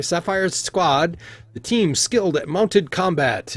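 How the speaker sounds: slow, high, stretched announcer call; Talabir announcing. Acted. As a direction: draw out the team name to the arena. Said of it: "you can hear Talabir say".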